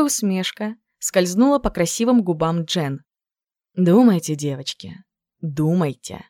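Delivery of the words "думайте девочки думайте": sly teasing. Acted. Jen slyly goading her friends to guess. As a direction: tease them slyly. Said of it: "с хитрым видом подначивала Джен".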